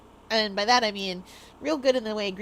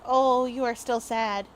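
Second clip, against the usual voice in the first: slow comforting; slower than usual. Retold or imitated. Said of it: "and then be like".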